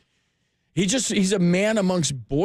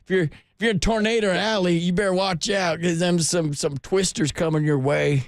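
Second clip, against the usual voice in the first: hammed-up folksy twang warning; folksy storm warner; 3 semitones higher than usual. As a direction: playfully pitch up a country weather warning. Teasing caller with folksy tornado warning.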